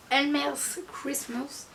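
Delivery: slow English title in a French accent; carefully says the English title with a French accent. Real, not acted. Reading an English book title to viewers, slow French-accented English. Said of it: "excusez mon accent un peu".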